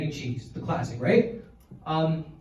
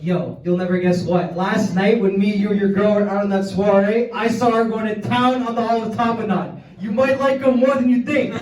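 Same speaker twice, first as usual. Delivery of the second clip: louder, gleeful comeback; 3 semitones higher, 5 dB louder than usual. Acted. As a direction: needle him with glee. Retort to roommate.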